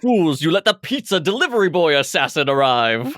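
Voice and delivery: hammed-up anime assassin proclamation; mock yelling. Friend acting out an assassin's grand entrance from the show, mock yelling. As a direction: declare it like an over-the-top cartoon assassin. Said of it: "they're yelling out their name".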